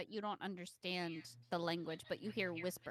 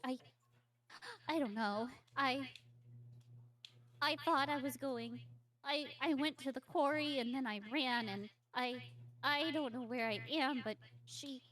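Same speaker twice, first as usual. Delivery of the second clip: put-on higher, halting child voice, stumbling on words; panting frightened child; 5 semitones higher, 4 dB louder than usual. Lost girl explaining to her rescuer, anxious and halting. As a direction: stammer it out like a winded little girl. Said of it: "She's panting, and she's like".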